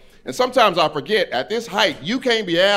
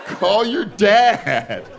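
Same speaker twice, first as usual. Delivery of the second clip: put-on higher, drawn-out white-girl delivery; confident white girl; 7 semitones higher, much slower than usual. Homie's girlfriend interrupting him, confident white-girl voice. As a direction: stretch it out with total assurance. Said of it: "That is a white woman phrase".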